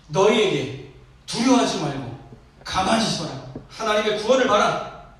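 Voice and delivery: loud, emphatic proclamation as Moses; crying out. Retold or imitated. Preacher as Moses to his frightened people, loud proclamation. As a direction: proclaim it forcefully, rising on the last command. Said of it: "모세가 외칩니다".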